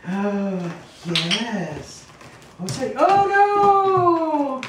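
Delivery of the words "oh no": surprised. Real, not acted. Dog falls off.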